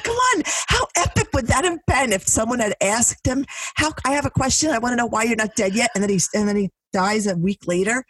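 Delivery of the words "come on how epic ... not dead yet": excited pretend question. Imagining asking Don Rickles.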